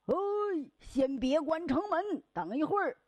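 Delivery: man hurrying out of town; calling out to wait. Acted. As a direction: beg him not to shut the gate yet. Man calls to gatekeeper.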